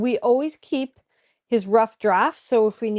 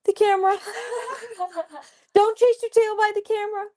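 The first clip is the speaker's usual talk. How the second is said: talking to a dog; 9 semitones higher, faster than usual. Real, not acted. Scolding the playful dog.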